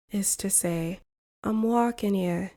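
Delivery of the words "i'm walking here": lightly imitated New York City accent; a hint of brisk Northeastern New Yorker. Shown as a demonstration. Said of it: "In the Northeast, a phrase for places like New York City".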